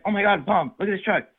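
imitating a thrilled child, high and bright; lightly voiced excited daughter; excited kid. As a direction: gush like a kid who loves her gift. Daughter thrilled by truck gift.

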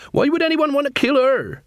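very high-pitched questioning; bewildered beggar queen. Acted. Beggar queen asks the watch about the death, high bewilderment. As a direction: ask it as a high-voiced beggar woman.

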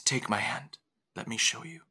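hushed, near-whispered offer; soft invitation. Acted. Dolores offering her hand to the mother, hushed. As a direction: coax softly. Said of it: "She says".

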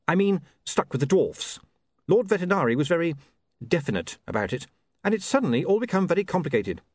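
apologetic and caught out; flustered young man. Acted. William voiced by narrator.

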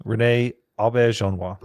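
Renee Aubergenois said clearly as a model; careful pronunciation. Shown as a demonstration. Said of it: "Say it one more time".

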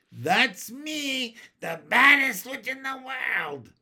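high, loud gleeful crowing; proud boast. A narrator's reading. Child witch hearing herself called bad, boasting. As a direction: exult like a triumphant child witch.

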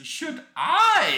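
squeaky, laughing "Should I?"; mock high laughing question. Mocking the repeated game phrase.

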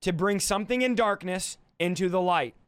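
measured, spaced-out explanation; slow down so they follow; deliberately slow. Shown as a demonstration. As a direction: say it carefully, phrase by phrase. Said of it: "I'm gonna talk slow".

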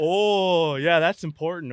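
words squeezed out through loud laughter; laughing hard at the punchline. Real, not acted. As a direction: crack up while you answer. Laughing at the vet's advice.

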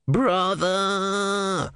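a sudden high shout of a name; calling out. Acted. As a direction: call his name sharply, high. A voice calls out to Brother.

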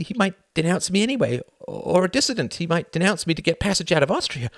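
lightly voiced anxious inner monologue; Tom's anxious thoughts. A narrator's reading. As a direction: think it through, growing agitated.

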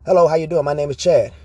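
polite, formal, rising greeting; a touch of prim politeness; overly proper greeting. Retold or imitated. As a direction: greet him like a polite schoolboy. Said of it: "why you so proper".

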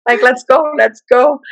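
quick, eager urging; eager "let's go". Retold or imitated. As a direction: push them to move out. Eager to leave with EMTs.

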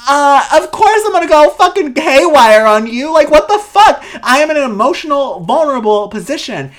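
loud, high, near-crying cry of rage; Brittany snapping at a paparazzo, loud and tearful; furious outburst. Acted. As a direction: go haywire at the intruder. Voicing Brittany losing control.

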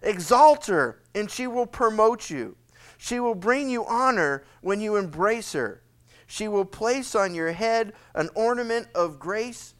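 a preacher voicing Solomon scolding his son; fatherly admonishing. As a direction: lecture the boy like a father shaking his finger. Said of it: "Can you almost see him shaking his finger?".

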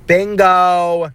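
excited exclaim. Real, not acted. Remembers what she said.

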